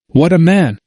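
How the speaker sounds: a touch of overjoyed wonder; joyful exclamation. A narrator's reading. Oswald overjoyed at the sermon, joyful exclamation. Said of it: "could not contain himself for joy".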